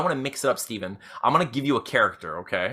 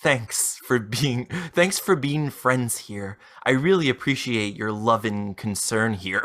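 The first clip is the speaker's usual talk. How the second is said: scammer read; 3 semitones lower, slower than usual. Acted. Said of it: "I'm going to be reading Jade Willis".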